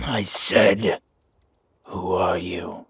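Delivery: loud, forceful repeat of the question; shouted second demand; angry demand. Acted. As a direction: make them answer now.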